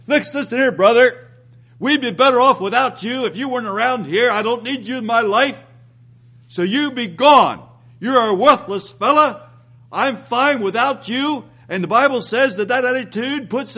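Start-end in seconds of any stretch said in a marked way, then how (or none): 0.1-11.4 dismissive brother. Retold or imitated. Preacher acting a man rejecting his brother, scornful dismissal. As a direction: wave him away like he's worthless.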